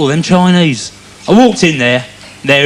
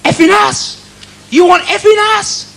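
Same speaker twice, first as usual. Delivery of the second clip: mock swearing; 10 semitones higher than usual. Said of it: "he swore at me. He went".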